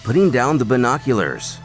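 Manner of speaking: ordinary delivery, nothing marked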